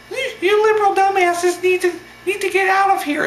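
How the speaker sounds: squeaky falsetto puppet heckler; Elmo voice. Retold or imitated. Heckler ordering protesters away, in high squeaky falsetto. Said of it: "His voice sounded just like this".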